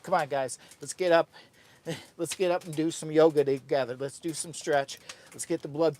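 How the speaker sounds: loud, fast pep talk; hype call. Real, not acted. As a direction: pump up the crowd. Hypes viewers up for yoga.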